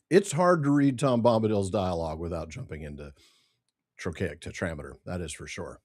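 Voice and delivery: talking while chewing cashews; words round a mouthful of nuts; mouth full. Real, not acted. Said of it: "You'll have to pardon my crunching".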